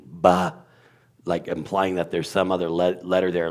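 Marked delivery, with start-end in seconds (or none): 0.1-0.6 "Ba" as a lone B with a vowel, louder; sounded-out B. Shown as a demonstration. Teacher sounding a letter for the host, a clear "Ba". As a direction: pop "Ba" out on its own. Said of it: "if you kept going after the B".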